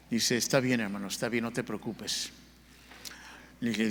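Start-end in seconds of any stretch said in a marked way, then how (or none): 0.4-2.3 soft, lower reassuring voice; retold reassurance. Pastor to a member asking forgiveness, gently reassuring. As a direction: quietly set someone at ease, as retold.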